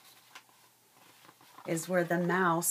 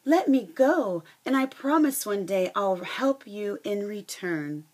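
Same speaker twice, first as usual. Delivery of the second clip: higher and louder, pleading in fright; terrified mouse; 4 semitones higher, 6 dB louder than usual. Acted. Teacher voicing the frightened mouse begging the lion, higher pleading. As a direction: squeak out a panicked plea. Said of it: "the terrified mouse gasped".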